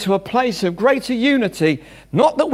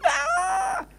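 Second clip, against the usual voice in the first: mock shout; 7 dB quieter than usual. Shown as a demonstration. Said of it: "not because I'm shouting".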